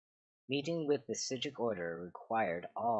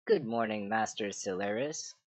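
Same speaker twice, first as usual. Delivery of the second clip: regal; 3 dB louder than usual. Acted. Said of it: "with a regal accent".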